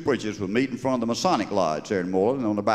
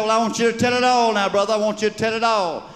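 high, loud urging; revival preacher; 9 semitones higher, 4 dB louder than usual. Acted. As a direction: egg him on to confess.

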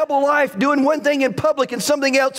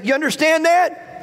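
pointed, higher-pitched challenge; confrontational; 6 semitones higher than usual. Shown as a demonstration. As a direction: press them with a firm question. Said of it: "get in their face a little bit".

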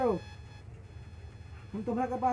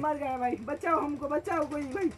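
pleading for help; 6 semitones higher than usual. Real, not acted. Begging teammates for rescue.

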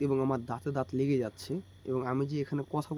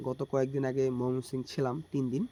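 cracked voice worn by a cold; hoarse voice. Real, not acted. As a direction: talk through a hoarse throat. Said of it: "যদিও আমার গলাটা ভেঙে গিয়েছে".

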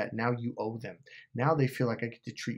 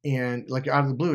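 plain reading voice

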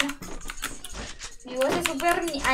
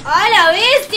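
excited exclamation; 3 semitones higher, 11 dB louder, slower than usual. Real, not acted. Gaming exclamation.

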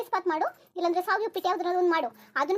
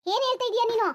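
domineering, raised-pitch reprimand; angry ordering; 2 semitones higher than usual. Acted. Mother-in-law orders daughter-in-law to cook, angrily domineering. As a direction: lay down the order, affronted and imperious.

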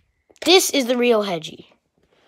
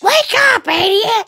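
high shouted wake-up call; bossy high yell to a sleeper; 9 semitones higher, 4 dB louder than usual. Pretend. Waking a sleeping playmate.

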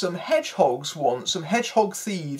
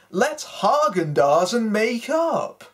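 mock German accent; 4 semitones higher than usual. Reviewer quoting the German horses' pun, light German accent. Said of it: "say lines in a terrible accent".

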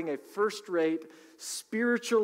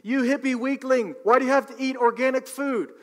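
higher, louder mocking rant at a hippie; mock yelling heckler; 8 semitones higher, 6 dB louder than usual. Half the country yelling at the tomato buyer, mock angry. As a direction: sneer like an angry critic of organic food. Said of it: "half the country starts yelling at you saying".

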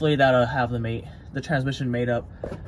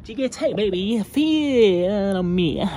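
pumped-up, higher hype call; hyped; 6 semitones higher, slower than usual. Real, not acted. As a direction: shout it out like a hype man. Hyping the part brand.

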